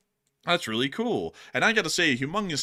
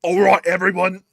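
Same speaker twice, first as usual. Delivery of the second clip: loud, higher British announcement; British marmot; 4 semitones higher, 8 dB louder than usual. Acted. Marmot announcing to everyone that school's out, loud British accent. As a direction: call out like a bossy British marmot. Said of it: "all of our marmots are British".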